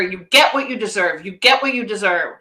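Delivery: flat, grim repetition of a judging saying; negative tone. Retold or imitated. Coach retelling the husband's harsh words in negative tone. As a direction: say it like a weight being dropped on her. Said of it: "said with this, this negative connotation".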